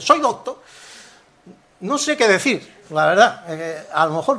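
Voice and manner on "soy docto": high-pitched "doctor" as "docto", no r; wondering "doctor", ending on a bare o; final r dropped. Shown as a demonstration. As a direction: ask it with "doctor" cut to "docto". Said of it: "quitando la R".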